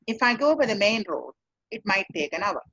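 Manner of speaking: matter-of-fact answer, no emotion; purely professional. Shown as a demonstration. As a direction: state it plainly like a driver. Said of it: "a purely professional answer".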